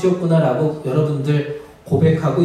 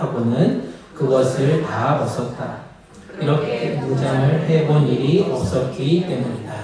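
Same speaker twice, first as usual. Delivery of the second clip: congregational scripture reading; 3 semitones lower than usual. Real, not acted. Preacher reads Saul and David passage with congregation, measured reading. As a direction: read the passage steadily so all can join.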